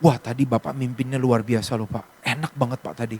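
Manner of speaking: gushing congregant. Retold or imitated. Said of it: "jemaat begini".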